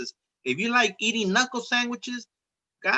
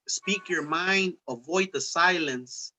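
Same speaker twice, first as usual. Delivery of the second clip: slow recited lyric; 2 semitones lower, slower than usual. Retold or imitated. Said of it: "I say in a song".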